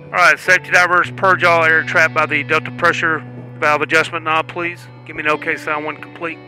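tinny radio transmission; calling divers over a comms loop; helmet radio. Real, not acted. Test director on comms.

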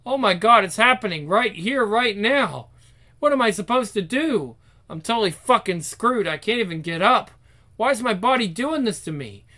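high-pitched, mounting alarm; panicked inner voice. Acted. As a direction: think aloud in an acted panic. Girl panics at blood on skirt.

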